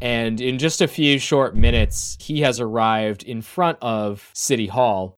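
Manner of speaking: measured, dramatic scene setting; storytelling game master voice; game master narration. Acted. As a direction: narrate the scene, lingering on key details.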